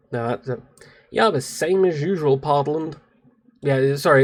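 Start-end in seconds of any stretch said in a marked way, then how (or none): 1.1-3.0 clumsy attempt at an American accent; bad American accent. Shown as a demonstration. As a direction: put on a shaky imitation American accent. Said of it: "my American accent is, pff, terrible".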